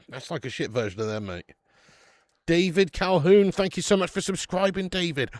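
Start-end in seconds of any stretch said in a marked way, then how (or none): 2.5-5.3 excited shout-out. Real, not acted. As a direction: announce the new subscriber with a big loud welcome. Excited shout-out to new subscriber.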